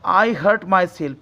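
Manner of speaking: each word drawn out slowly; slow dictation. Shown as a demonstration. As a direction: read it out slowly for the class. (बहुत धीरे-धीरे बोला गया वाक्य)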